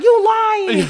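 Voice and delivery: high, loud laughing accusation. Retold or imitated. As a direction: burst out laughing as you say it. Everybody busting out laughing.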